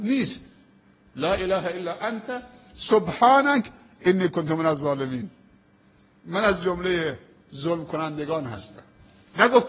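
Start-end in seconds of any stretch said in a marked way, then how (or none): 1.2-5.3 Quranic recitation. Acted. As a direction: stretch each word as in prayer. Recites the full verse.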